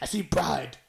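unvoiced whispered movie line.

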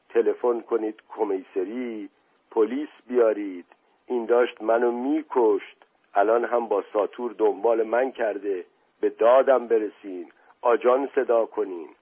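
lightly acted feeble plea; weak moaning. Beaten man begs guests to call police, weak moaning. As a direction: plead faintly, a touch of a moan. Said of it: "ناله کنان با صدای ضعیفی گفت".

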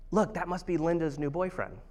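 hushed aside, retelling mom's whisper; imitated whisper. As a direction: drop the voice as if whispering to a husband. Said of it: "goes to my dad in a whisper".

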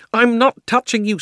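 put-on a boy denying it; startled boy. Diggory answers Polly, high and startled.

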